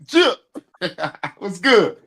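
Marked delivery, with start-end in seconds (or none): 0.1-0.4 "Chill" as one short, punchy falling word; quick, emphatic "Chill"; said just so. Shown as a demonstration. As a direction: punch out "Chill" and let it drop. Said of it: "You gotta say it like that".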